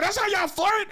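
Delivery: high, laughing question; laughing disbelief. Retold or imitated. Laughing at how women flirt, high and laughing.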